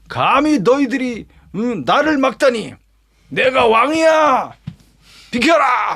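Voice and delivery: high-pitched indignant royal outburst; furious king ordering priests aside, high and forceful; angry king. Acted. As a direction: snap at them like an offended king, slow on 내가 왕이야. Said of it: "도리어 막 화를 내면서".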